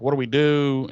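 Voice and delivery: light imitation of someone freaking out. Xander asking the others what to do, mock freaking out. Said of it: "Xander is just freaking out".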